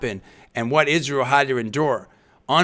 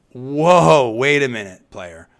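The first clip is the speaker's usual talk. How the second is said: louder, mock-indignant "Whoa, wait a minute"; talk show host emphasis; 2 semitones lower, 4 dB louder, slower than usual. Host stopping a reporter's remark, a brisk indignant halt. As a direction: pull the guest up short like a talk show host. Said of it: "that's my emphasis".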